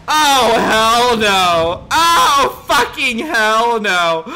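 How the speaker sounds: loud, slow holler; outraged refusal. Acted. Guest refusing to accept the white rule, outraged bellow. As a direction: bellow it, dragging out each word.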